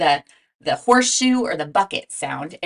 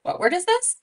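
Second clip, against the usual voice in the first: eager prompting; 13 semitones higher than usual. Shown as a demonstration. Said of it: "teacher prompting class".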